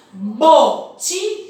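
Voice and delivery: botijão drawn out slowly, syllable by syllable; counting syllables. Shown as a demonstration. Teacher asking pupils how many syllables, slowly. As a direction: stretch botijão to count the mouth openings. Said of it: "quantas vezes nós abrimos a boca".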